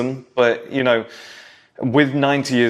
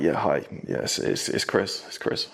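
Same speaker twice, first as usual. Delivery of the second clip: hushed breathy phone whisper; shy teen whispering into the house phone; imitating a whisper; 6 semitones lower, 8 dB quieter than usual. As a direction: whisper so the family can't hear. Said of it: "Why are you whispering?".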